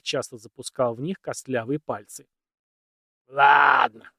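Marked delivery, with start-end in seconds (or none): 3.3-4.1 high, loud eager burst; eager shout. A narrator's reading. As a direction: launch in with excitement. Old man suddenly animated.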